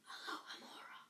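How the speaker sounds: very soft, secretive whisper. Acted. Hermione casting a spell on the lock, whispered. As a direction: breathe the spell without voice. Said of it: "and whispered".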